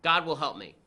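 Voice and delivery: a lightly acted stubborn no; stubborn refusal. The religious guy turning down the boat, mock refusal. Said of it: "And the religious guy says".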